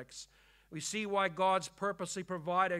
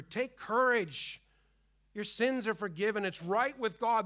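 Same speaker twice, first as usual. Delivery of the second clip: emphatic exhortation; 4 semitones higher, 5 dB louder than usual. Real, not acted. Pastor urging suffering believers to take courage, proclaimed loudly. Preacher rising to exhort the congregation.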